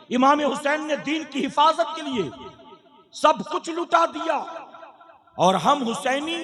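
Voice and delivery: fervent preacher addressing the congregation; sermon preaching. Acted. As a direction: preach it, rising and pressing each point. (जोशीला धार्मिक प्रवचन)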